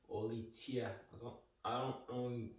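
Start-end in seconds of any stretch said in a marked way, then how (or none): 0.2-0.9 "Li Tia" softly, ending in ee-uh; soft third guess at "Li Tia", trailing into uh; uncertain pronunciation. Shown as a demonstration. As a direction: say "Li Tia" quietly with a two-vowel ending. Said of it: "know how his name's pronounced".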